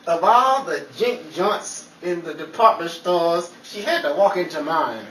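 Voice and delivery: hammy leading-man delivery; dramatic movie tough guy. Acted. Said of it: "cut the dramatics".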